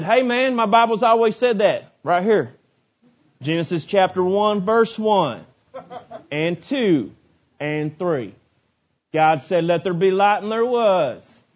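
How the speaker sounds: lightly voiced rural preacher accent; country preacher accent. Preacher imitating an uneducated country preacher correcting scientists, mild rural accent. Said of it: "I don't know why uneducated people talk like that".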